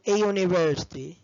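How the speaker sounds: a year ago said slowly with year stressed; slow model phrases. Shown as a demonstration. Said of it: "بقول".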